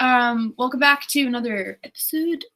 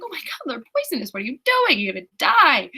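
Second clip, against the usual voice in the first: hammed-up panic, high and building louder; freaking out; 4 semitones higher, 4 dB louder than usual. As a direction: imitate a kid panicking, getting louder. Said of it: "the kid's freaking out".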